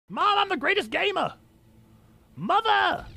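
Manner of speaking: put-on high whiny kid calling mom; bratty kid voice. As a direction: boast like a proud little kid. Calling mother, boasting.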